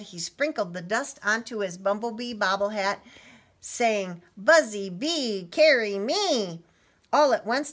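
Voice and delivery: animated storybook narration; story reading. A narrator's reading. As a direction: read to children, building to excitement. Reads story to children.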